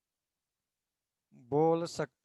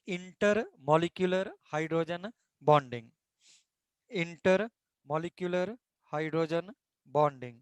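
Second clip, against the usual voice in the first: slow, even dictation pace for notes; much slower than usual. Acted. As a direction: spell it out slowly so students can write. Dictating the heading slowly. (धीमी गति से लिखवाना)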